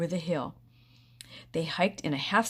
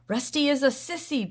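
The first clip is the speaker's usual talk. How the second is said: loud, higher taunting shout; 9 semitones higher, 5 dB louder than usual. A narrator's reading. Beanie shouting taunts at Rusty. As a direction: jeer it loudly. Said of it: "Beanie shouted".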